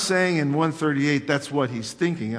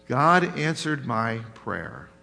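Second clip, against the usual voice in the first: flat statement; 4 semitones lower, slower than usual. Shown as a demonstration. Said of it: "We read it as a statement".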